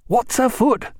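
half-awake doctor; lightly voiced sleepy doctor; Stephen voiced. Groggy Stephen asks.

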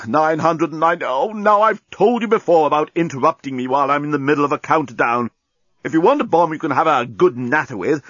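scold, clear the throat, resume counting grandly; huffy talking bomb. Acted. Bomb complaining of interruptions, huffy then ceremonious.

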